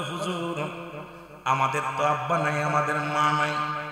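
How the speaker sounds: soft, slow, weeping, lamenting, pleading voice.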